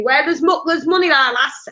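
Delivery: lightly attempted Yorkshire accent; a rough go at Yorkshire-Lancashire talk. Medium relaying a Northern gentleman's words, light Yorkshire accent. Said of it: "very Yorkshire, very Yorkshire, Lancashire".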